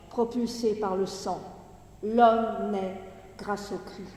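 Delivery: projected, measured poetry recitation with falling line endings; Gedichtlesung. Acted. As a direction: declaim the verse in phrases set apart by pauses. Reads the poem aloud.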